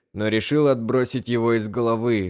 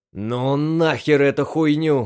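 a mild shout, higher; 4 semitones higher, 4 dB louder than usual. Acted. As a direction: blurt it out in disgust. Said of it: "крикнул Трэвис". (резкий выкрик)

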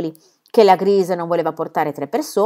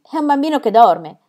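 higher, louder, with sudden discovery; excited exclaim; 7 semitones higher, 6 dB louder than usual. Acted. Marie recognizes the sleeping child, excited exclaim. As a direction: cry out in surprise at finding the boy. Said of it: "esclamò la piccola Marie".

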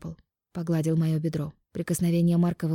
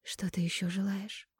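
pillow talk; 11 dB quieter than usual. Acted. Heroine flirts softly.

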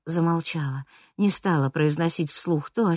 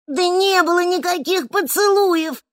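much higher, louder indignant protest; loud exclamation; 14 semitones higher, 5 dB louder than usual. A narrator's reading. Чижик громко отрицает поцелуи перед кафе, indignant exclamation. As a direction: shout down the rumour. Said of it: "громко воскликнула Чижик".

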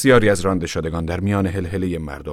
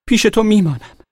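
louder cry; 7 dB louder than usual. Acted. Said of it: "فریاد زد".

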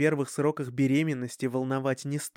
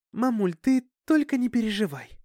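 put-on Dasha's high, pleading girl voice; sighing plea; 8 semitones higher, 4 dB louder than usual. A narrator's reading. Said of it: "тихо вздохнув ещё раз, попросила". (тихая просьба со вздохом, голос выше)

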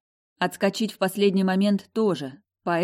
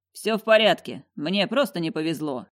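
said cheerfully. Acted. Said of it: "весело произнёс".

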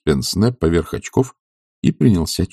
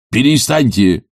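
raised call after a departing guest; calling after her; 5 semitones higher, 3 dB louder than usual. A narrator's reading. Professor calls after the departing young lady. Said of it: "крикнул ей вслед".

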